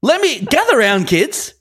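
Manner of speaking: rambling grandpa story. Pretend. Begins telling the Brady story to the kids.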